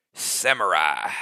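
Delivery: deep, low drawn-out sensei intonation; medieval sensei. Pretend. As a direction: announce it like an old martial arts master. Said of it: "I sounded like medieval sensei type".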